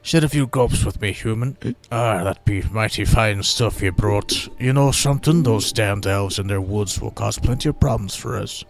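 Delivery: slight rustic dwarven lilt; lightly voiced dwarf mayor. Mayor shares mead and grumbles about elves, mild dwarf voice.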